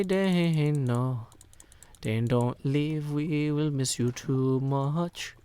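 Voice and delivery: slow, drawn-out whiny plea, a touch of put-on voice; mock pleading chat. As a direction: beg him to stay like a sulky crowd, stretching "Dane". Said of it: "We say".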